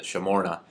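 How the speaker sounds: "shmorna" with a little uh after the sh, not a lot; slight uh. Shown as a demonstration. Teacher showing how we would say that, slight uh. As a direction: slip a short neutral vowel between sh and m in "shmorna". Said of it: "a little bit of a uh".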